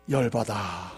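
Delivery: husband grumbling the wrong answer; gruff punchline. Retold or imitated. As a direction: drop it like a deadpan punchline.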